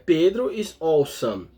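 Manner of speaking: said slowly and clearly, word by word; slow example sentence. Shown as a demonstration. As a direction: spell out "Pedro is awesome" slowly for students. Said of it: "Eu posso falar". (frase de exemplo dita devagar)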